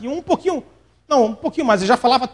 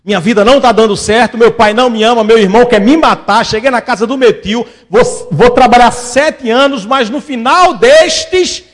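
Jacob's lament; 5 dB louder than usual. Retold or imitated. Jacob's inner monologue voiced.

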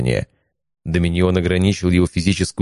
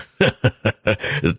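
a big mocking laugh, thrown back; dragon's booming laugh; 4 semitones higher than usual. Dragon laughs at Leon's duel challenge, booming laugh. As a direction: laugh at the challenge as if it's a joke. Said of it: "расхохотался так громко".

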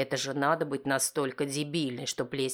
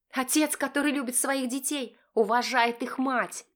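wife shouting; 11 semitones higher than usual. Acted. Wife shouting at husband, high and furious.

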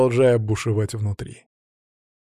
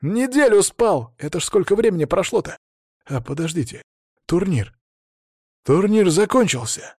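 higher, louder rising alarm; alarmed realization; 6 semitones higher, 3 dB louder than usual. A narrator's reading. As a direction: realize how much time passed.

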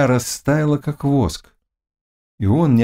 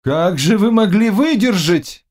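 doubtful question; 11 semitones higher than usual. A narrator's reading. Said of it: "с сомнением в голосе".

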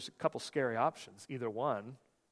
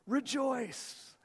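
mock rejoicing; 11 semitones higher than usual. Mock cheerful reply to bad news.

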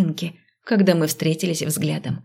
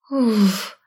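exhale; 3 semitones higher than usual. A narrator's reading. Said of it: "выдохнула я".

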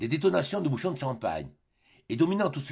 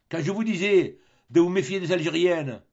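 louder, higher lecturing skipper; captain lectures the fooled Tartarin, louder and higher; sententious captain; 6 semitones higher, 6 dB louder than usual. Acted. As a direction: lay down the lesson like a know-all sailor. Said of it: "fit sentencieusement le capitaine Barbassou".

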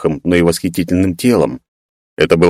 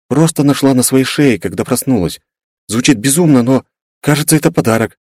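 uncertain; 7 semitones higher than usual. Acted. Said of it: "не совсем уверенно закончила".

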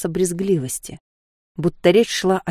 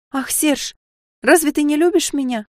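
frightened plea; 9 semitones higher than usual. Acted. Sofia cornered, frightened.

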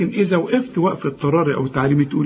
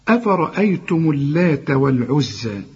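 Quran recitation. Shown as a demonstration. Teacher reciting to a student, measured tajweed recitation. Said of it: "نشوف الأحكام في هذه الآيات".

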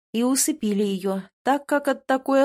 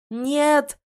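high, loud cry of loss; a grief-stricken bellow; anguished roar; 6 semitones higher, 5 dB louder than usual. A narrator's reading. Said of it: "услышал следом рёв Тина".

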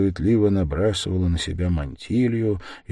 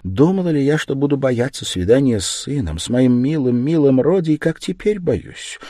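higher, trembling-worded worry, slowing at the end; a mother's anxious lament, voice raised; fearful mother; 8 semitones higher, 5 dB louder than usual. Acted. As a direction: confess her dread of seeing her son. Mother fearing meeting her son.

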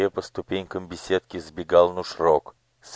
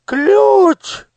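shrieking, much higher and louder; screech; 7 dB louder than usual. Acted. Daughter seeing the girl grab the key, shrieking. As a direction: shriek the word out. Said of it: "завопила Анидак".

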